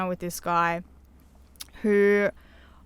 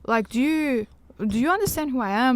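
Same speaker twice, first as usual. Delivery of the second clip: mildly indignant, higher-pitched challenge; retold confrontation; 5 semitones higher than usual. Woman confronting the mate who set her up, mildly indignant. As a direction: take the mate to task, lightly re-enacted.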